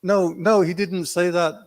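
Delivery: high, insistent correction; flustered denial. Retold or imitated. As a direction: put the confusion right quickly. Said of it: "He said".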